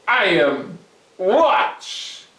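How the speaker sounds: loud, firm and sure; Herschel, confident. Acted. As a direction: show him. Herschel's reply.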